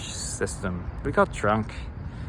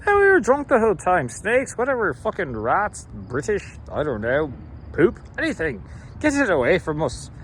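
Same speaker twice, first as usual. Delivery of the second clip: mock stereotypical Irish brogue; Irish stereotype; 4 semitones higher than usual. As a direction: play up the Irish lilt, mildly. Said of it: "let's go to the classic Irish stereotype".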